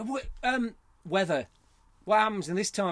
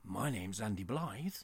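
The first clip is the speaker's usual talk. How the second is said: put-on lower, posh announcer's accent; posh voiceover accent; 4 semitones lower, 5 dB quieter than usual. Host formally welcoming podcast listeners, posh voiceover accent. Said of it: "Was that nice and posh".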